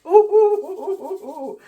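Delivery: high excited "ooh-ooh" squeals; delighted oohs. Real, not acted. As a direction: coo in rising delight, very high. Thrilled reaction to finished painting.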